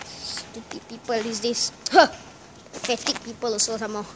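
angry grumbling. Pretend. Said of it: "the guy called very angry".

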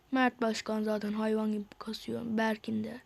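whispered aside; voiceless murmured remark. Real, not acted. Muttering names of friends.

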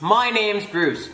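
slow, drawn-out Aussie accent; Australian accent. Shown as a demonstration. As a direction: introduce yourself in a stretched Australian accent. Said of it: "Do your best Australian accent".

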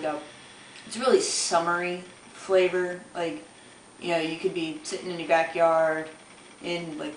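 mouthpiece at the lips; talking while smoking hookah; speaking around hookah mouthpiece. Real, not acted. Seen 1: Hookah mouthpiece held at lips while talking throughout the stretch.

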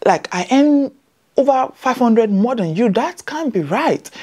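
imitating Scottish colleague. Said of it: "Scottish was like".

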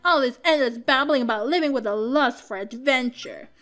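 put-on scornful kid telling off a traveller; lightly voiced bitter son, ranting; peeved son. Son dismisses traveller's lust for adventure, peeved rant.

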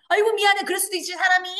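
high, loud, brush-off sorry; careless apology. Shown as a demonstration. Showing how not to apologize, flippant. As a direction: shrug off the blame breezily. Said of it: "그런 게 하지 말고".

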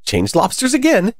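the Gryphon yelling at the top of its voice; yelled. A narrator's reading. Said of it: "yelled the Gryphon at the top of its voice".

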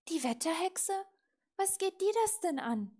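loud, high, defiant questions; indignant retort. A narrator's reading. Little witch to raven about weather witch, indignant. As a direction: throw the question back crossly.

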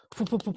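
imitated rooster charge noise; rapid poop noises. Rooster charges from behind again, imitated noise. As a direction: puff out quick repeated syllables. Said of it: "then I hear it again".

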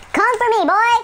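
high, loud taunting call; taunting shout. Real, not acted. Gamer taunting an opponent, loud shout. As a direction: dare the enemy to come. Challenging an enemy player.

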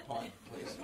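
very soft, low, near-whispered order; imagined meek thought. Acted. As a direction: mimic his timid inner voice, barely audible. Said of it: "He's thinking".

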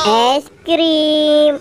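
a vendor crying es krim; street hawker call. Acted. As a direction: sing out to the street. Vendor calling out wares.

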